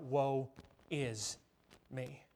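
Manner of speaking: low, very soft, fading cry; hushed lament. Acted. Isaiah seeing the Lord, hushed lament.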